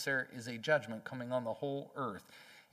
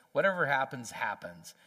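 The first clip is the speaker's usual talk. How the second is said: shrugging defiance; 4 dB louder than usual. Retold or imitated. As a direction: toss it off, then let it sink. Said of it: "so defiant toward God that they say".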